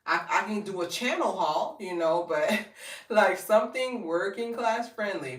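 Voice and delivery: high, sassy pushback. Retold or imitated. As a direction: talk back with sass. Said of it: "And I'm just like".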